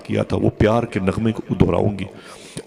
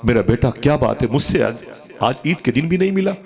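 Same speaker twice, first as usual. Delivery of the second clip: retold mother's wail; 4 semitones higher than usual. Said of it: "चीखती रही".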